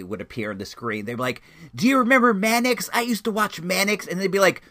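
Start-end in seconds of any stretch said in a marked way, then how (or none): 1.7-4.1 put-on loud, high older moviegoer blurting away; full conversational volume. Older moviegoer reminiscing aloud during the film, loud and high. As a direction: mimic someone talking too loudly in a cinema. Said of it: "full conversational tone".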